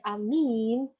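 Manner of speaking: amin with the i held long, "amiin"; long second vowel. Shown as a demonstration. Lecturer contrasting Arabic word meanings, amin with long i. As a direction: stretch only the i in amin. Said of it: "the length of the sound can change the meaning".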